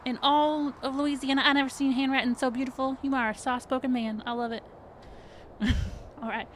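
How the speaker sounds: very high, fast, gushing perky voice; bubbly HR lady. Acted. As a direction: chirp it out like an overeager hostess. GM keeps playing Becky.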